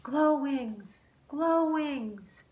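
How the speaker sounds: high call into the tree. A narrator's reading. Luke calls for Glowwings from the tree. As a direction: call her name up high. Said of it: "he called out".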